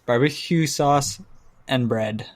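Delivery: ordinary talk, nothing marked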